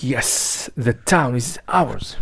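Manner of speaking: low, slow murmured aside to himself; a hushed, gloating aside; sly aside. Acted. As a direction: mutter it half to yourself as he leaves. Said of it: "bowing himself out aside".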